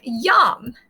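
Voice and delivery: "yum" begun with a Y glide; I as consonant. Shown as a demonstration. Teacher showing initial I is a consonant, Y-sound "yum". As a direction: say "yum" slowly, opening on a Y sound. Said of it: "notice how I said yum".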